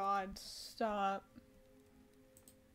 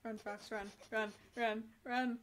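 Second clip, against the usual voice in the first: cheering on; 3 semitones higher than usual. Real, not acted. Cheering a character on.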